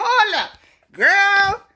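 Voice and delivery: sudden high squeal at the pet. Real, not acted. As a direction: pitch way up, talking to the dog. Scolding her pet mid-livestream.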